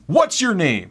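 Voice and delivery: high, loud mock demand; huffy customer. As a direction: mimic an indignant customer demanding an answer. Retold huffy customer demands his name.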